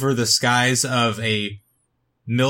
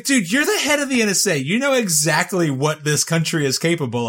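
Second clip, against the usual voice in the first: incredulous; 3 semitones higher than usual. Retold or imitated. Mocking disbelief at Stanton.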